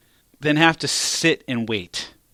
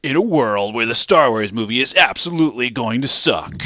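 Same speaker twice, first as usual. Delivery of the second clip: movie trailer voice. Acted.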